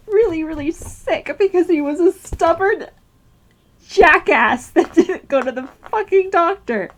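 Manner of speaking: frustrated, punched-out swearing; exasperated outburst. Real, not acted. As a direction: let real exasperation at a loved one out. Exasperated grieving outburst at father.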